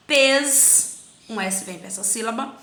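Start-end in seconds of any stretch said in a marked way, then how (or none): 0.1-1.0 PES said alone and firmly; isolated syllable. Shown as a demonstration. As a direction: set pes apart as one syllable. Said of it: "Vamos separar". (pes dito isolado, com firmeza)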